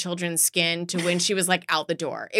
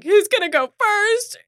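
high chirpy nurse; 12 semitones higher, 5 dB louder than usual. Retold or imitated. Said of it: "They're like".

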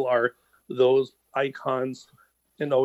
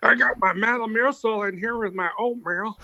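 talking through a mouthful; chewing on food mid-sentence; chewing while talking; 8 semitones higher than usual. Real, not acted. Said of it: "if I sound like I'm chewing on something".

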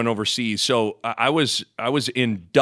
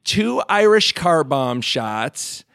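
slow, deliberate order, pitched up at the start; mock wife ordering; 3 semitones higher, slower than usual. The wife orders shots from the Dublin bartender, slow and bright. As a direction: spell out the order slowly and brightly. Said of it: "and she goes".

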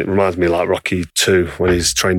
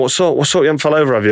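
lightly voiced wife, higher and anxious; worried wife; 6 semitones higher, faster than usual. Husband imitating his wife asking if he fell, pitched-up worry. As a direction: mimic Rachel's concerned questioning, pitched up.

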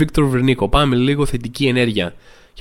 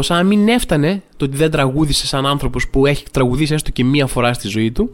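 ordinary talk, nothing marked

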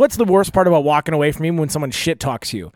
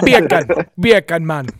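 mock Jamaican accent; 3 dB louder, slower than usual. Host joining the patois joke in a mock Jamaican accent. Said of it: "get your Jamaican accent".

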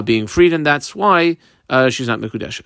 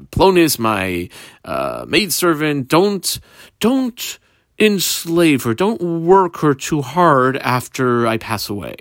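dying master; slower than usual. Acted. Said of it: "he said as he was on his deathbed".

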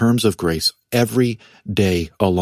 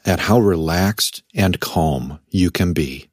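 said calmly; 5 semitones lower than usual. Real, not acted. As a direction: let it settle, unhurried and calm. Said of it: "I love how you said it so calmly".

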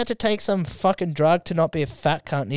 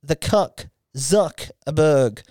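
boxing ring announcer. Pretend. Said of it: "my ring announcer voice".

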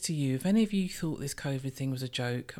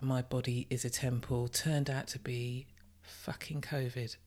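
whispering; 3 semitones lower, 6 dB quieter than usual. Real, not acted. Confessing it was covid.

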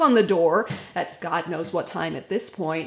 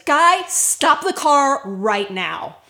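sharp order; 4 semitones higher, 6 dB louder, slower than usual. Retold or imitated. Wife orders husband to stop.

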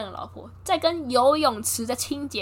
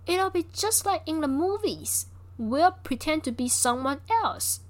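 slow, higher, playful movie-line delivery; acted famous line; 6 semitones higher, slower than usual. Betty cheerfully urging Rita to fake a phone call, slow and playful. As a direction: savour it like a quotable film line. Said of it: "为什么我要念这句话".

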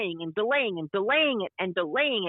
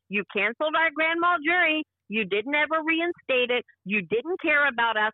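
heated retelling; 4 semitones higher than usual. Retold or imitated. Sister retelling how she confronted the agent, rising angry voice. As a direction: pitch climbing higher, voice rising in angry protest.

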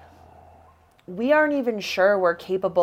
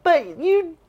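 very high, loud, drawn-out cry of triumph; emotional cheering; 11 semitones higher, 8 dB louder, slower than usual. Retold or imitated. Friend cheering a crying hiker at the pass, emotional cheering. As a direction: cheer her on in a retold high wail. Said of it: "she's crying and I'm like".

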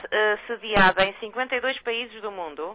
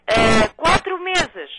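over enunciating; 4 dB louder, slower than usual. Real, not acted. Repete para quem não ouve.

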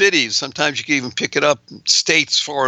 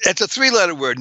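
normal talking voice

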